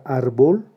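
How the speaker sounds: árbol with the first syllable, ár, stressed. Shown as a demonstration. Teacher showing a class the tónica in árbol, first-syllable stress. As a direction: say árbol leaning on ÁR, not bol. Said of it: "la sílaba tónica es la penúltima".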